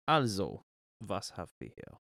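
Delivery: bad German accent, mixing in English; half-hearted fake German accent; mock German accent. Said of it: "That was a shocking mock-up of German and English".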